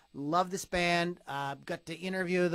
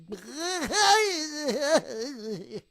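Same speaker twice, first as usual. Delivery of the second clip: silly cry; 10 semitones higher, 7 dB louder than usual. Pretend. Silly riff on bee's knees.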